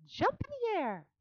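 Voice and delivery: high, loud call; cried out. A narrator's reading. Charlotte coaching Wilbur, high loud cry. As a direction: cry the order. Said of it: "cried Charlotte".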